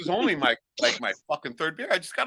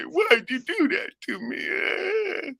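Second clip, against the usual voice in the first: high, slow whiny plea; sneering impression of a whiny complainer; mock whine; 12 semitones higher, much slower than usual. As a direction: whimper it like a hurt crybaby. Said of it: "cry and whine and say".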